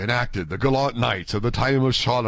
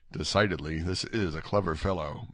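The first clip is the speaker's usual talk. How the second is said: low, soft aside; quiet, understated remark; murmured; 4 semitones lower, 6 dB quieter than usual. A narrator's reading. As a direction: murmur it as if to yourself. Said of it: "murmured Athos".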